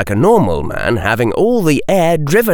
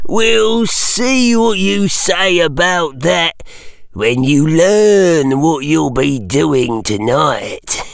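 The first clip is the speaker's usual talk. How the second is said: slow, higher, gloating caretaker voice; spiteful old caretaker; 6 semitones higher, slower than usual. A narrator's reading. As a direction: savour the threat like a mean old caretaker. Caretaker voice in story.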